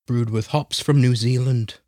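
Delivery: slow, badly faked New Zealand accent; a hammed-up, sleepy New Zealand accent, slowly; terrible New Zealand accent. Reading the beer label to his cohost in a bad New Zealand accent. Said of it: "That was a terrible New Zealand accent".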